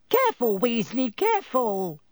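high, urgent warning call; crying out a warning. A narrator's reading. Professor Sprout warning Ron over spilled beans, urgent cry. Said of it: "cried Professor Sprout".

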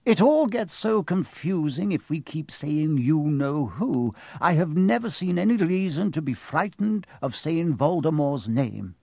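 mildly reproving, reasonable wizard; lightly voiced old wizard. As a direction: play a wizard calmly making his case. Dumbledore voiced in the story.

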